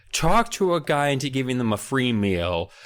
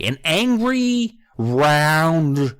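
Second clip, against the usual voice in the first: mock angry potato; 5 semitones higher, 5 dB louder, much slower than usual. Shown as a demonstration. Demonstrating the angry potato man voice.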